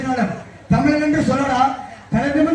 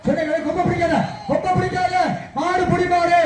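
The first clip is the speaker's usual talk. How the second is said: jallikattu announcer; 3 semitones higher than usual. Retold or imitated. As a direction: hype up the crowd like a bull-taming announcer. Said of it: "அதே மாதிரி பேசுவார்".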